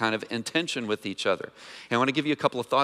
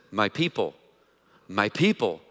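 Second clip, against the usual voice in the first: tender my people; 5 semitones lower than usual. Retold or imitated. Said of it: "God looks at the people of Israel and he says".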